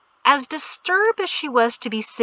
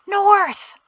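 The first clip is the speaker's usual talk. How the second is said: high, urgent strained cry; frantic loud whisper; 12 semitones higher, 5 dB louder than usual. A narrator's reading. Guide as rider gallops off wrong way, frantic whisper. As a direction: call out frantically as if trying to keep hushed. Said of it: "Shem frantically whispered".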